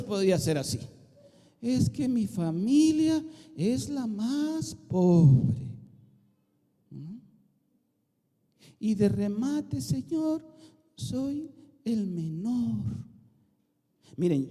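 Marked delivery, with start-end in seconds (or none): 1.6-12.8 a mock whimper of excuses; whiny excuse. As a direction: drag out the excuse like a sulking youngest child. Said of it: "si lo estaba diciendo en ese tono".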